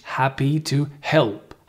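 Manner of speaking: "Happy to help" with both H sounds clearly voiced out; pronounced H. Shown as a demonstration. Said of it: "Make sure you pronounce the H".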